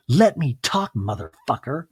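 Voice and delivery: snapping mom. Retold or imitated. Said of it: "And she goes".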